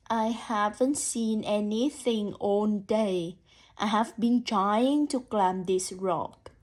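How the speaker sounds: slow, calm turtle voice; a hint of a slow, calm turtle; low calm turtle. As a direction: take it slowly like a plodding turtle. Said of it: "imagine the turtle's voice as low and calm".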